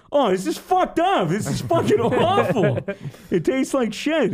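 disgusted. Retold or imitated. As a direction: spit it out like it's vile. Friend tastes mustard crackers, disgusted.

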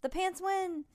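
high-pitched winner call; thrilled end-of-race commentary; triumphant announcement. A narrator's reading. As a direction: declare the champion excitedly.

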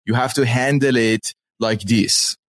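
light Persian accent, slowing at the end. Shown as a demonstration. Explaining the cadence to co-hosts, in a Persian accent. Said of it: "So that's my Persian accent".

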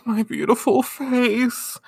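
high, slow drawn-out lament; hammed-up vain moan; mock anguished wail. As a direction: moan it like a fainting diva. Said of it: "she's like".

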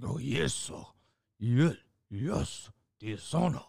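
put-on caricatured Chinese accent; hammed-up Chinese accent impression; mock Chinese accent. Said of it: "didn't wanna do a Chinese accent".

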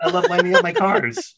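hammed-up childlike glee, pitched very high; gleeful kid. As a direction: imitate a little kid bursting with delight. Plays naive self as kid.

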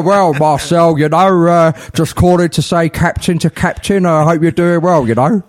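lightly voiced old footballer leaving voicemail; a hint of a veteran captain impression; Ron Harris. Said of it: "Desailly accent and this player's accent".

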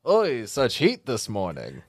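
lightly played Yiddish old man; a hint of a Yiddish kvetch; understated Yiddish accent; mock Yiddish accent. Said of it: "dialectical Yiddish".

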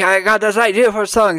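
high, excited soul-singer voice; soul-singer impression. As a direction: pitch the song idea like a famous soul singer.

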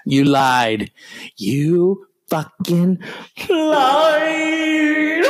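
slow, rising to a high yell; outraged. Acted. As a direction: stretch out "lied". Drawn-out accusation.

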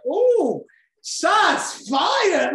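high, loud mock shout of surprise; mock shots fired. Speaker mocking an audience jab, high teasing shout. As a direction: squeal it like a playground taunt.

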